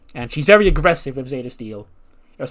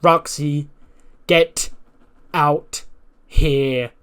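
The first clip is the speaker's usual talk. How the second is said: mock mic callout; 2 semitones higher, 5 dB louder, much slower than usual. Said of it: "she grabs the mic and she goes".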